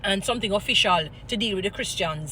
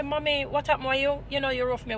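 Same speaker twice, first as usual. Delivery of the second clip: gentle respectful plea; 3 semitones higher than usual. Shown as a demonstration. To a rude elderly lady, a gentle mild plea. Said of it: "even my voice have to take time".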